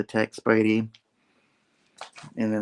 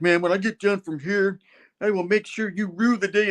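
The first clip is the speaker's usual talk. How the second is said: a hint of a grumbling villain, higher; villain threat; 9 semitones higher than usual. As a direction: mutter a petty threat. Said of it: "And Fission's like".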